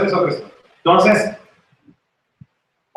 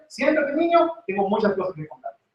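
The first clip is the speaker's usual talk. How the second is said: voice of God; 8 semitones higher, 5 dB quieter than usual. Acted. God voiced speaking to child.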